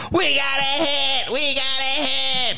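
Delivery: high, slow triumphant cheer; hammed-up victory shout; mock celebration shout. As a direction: crow it out like a party toast. Celebrating at wrap party.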